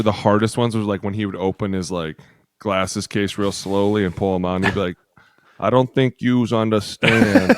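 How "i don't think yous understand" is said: slow, deliberate and heavy; slow grim coach. Retold or imitated. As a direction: drag each word like a disappointed coach. Coach slowly putting on glasses.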